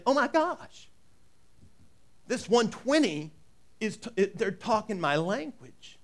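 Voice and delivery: a lightly voiced high amazed gasp; amazed exclaim. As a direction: blurt it out like hearing home. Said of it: "all these people are saying".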